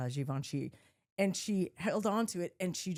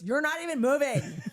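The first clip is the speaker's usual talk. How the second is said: laughing brother retort; 5 semitones higher, 5 dB louder than usual. Retold or imitated. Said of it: "And he goes".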